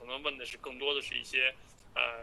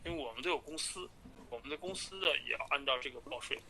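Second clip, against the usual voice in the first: phone call; 4 dB louder than usual. Real, not acted. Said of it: "直接听一分五十二秒吧".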